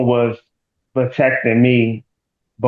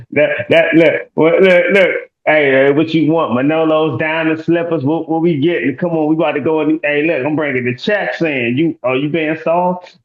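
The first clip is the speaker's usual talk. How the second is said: playful mock big-shot swagger; hyped boasting; 5 semitones higher than usual. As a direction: hype her up like a big spender. Hyped boastful bit, high and loud.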